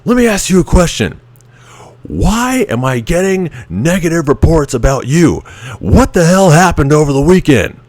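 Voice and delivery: high, strained interrogation, faking fury; a mock-pissed instructor grilling a sailor; mock angry instructor. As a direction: grill him like a pretend-furious petty officer. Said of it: "he's acting like he's all pissed off".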